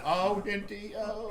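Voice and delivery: a hint of the hobo voice; homeless guy character. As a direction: slip back into the Hinty character. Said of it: "We'd be in those voices".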